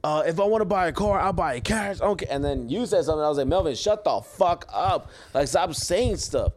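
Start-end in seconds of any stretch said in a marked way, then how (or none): 0.0-2.3 higher-pitched mock drunken insistence; retold tipsy declaration, pitched up; imitated drunk friend. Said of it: "when you get drunk sometimes". 3.5-6.5 slow, drawn-out mock telling-off; retold exasperation, slowly spaced out; exasperated retort. Retold quarrel, telling friend off.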